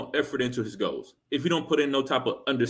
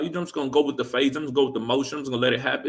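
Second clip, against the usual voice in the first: mock carefree voice; much faster than usual. Mocking carefree women's attitude.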